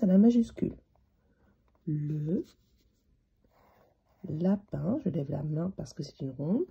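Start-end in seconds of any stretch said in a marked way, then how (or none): 1.9-5.0 each word drawn out while writing; slow, spaced-out words; writing aloud. Shown as a demonstration. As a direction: say each word slowly as you write it. Saying words while writing them.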